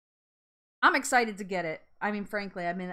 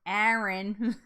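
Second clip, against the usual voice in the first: New Jersey Erin; 3 dB louder than usual. Shown as a demonstration. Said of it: "Get my New Jersey on".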